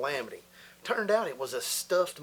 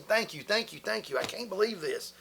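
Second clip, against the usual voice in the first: higher, gushing thank you, thank you; overjoyed thanks; 6 semitones higher than usual. Retold or imitated. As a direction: gush with relief at being fired. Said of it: "Man, I lit up".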